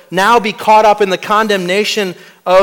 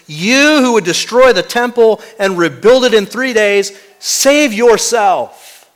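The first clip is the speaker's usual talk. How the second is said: a mild mock yell of scorn, drawn out at the end; mocking crowd's yell; 6 semitones higher, 3 dB louder, slower than usual. Crowd jeering at Jesus on the cross, mild mock yell. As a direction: jeer it like the crowd at the cross, slowing the last words. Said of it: "screamed at the top of their lungs".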